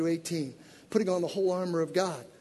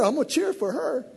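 ordinary talk

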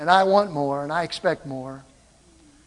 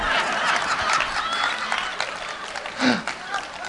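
high laugh; 5 dB quieter than usual. Real, not acted. Laughing at his own joke.

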